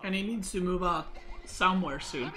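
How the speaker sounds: words stretched by a yawn. Real, not acted. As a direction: talk through a yawn. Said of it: "why do I keep yawning".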